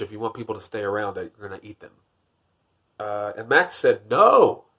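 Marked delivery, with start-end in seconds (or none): 4.1-4.7 firm refusal. Acted. Max refusing the wild things.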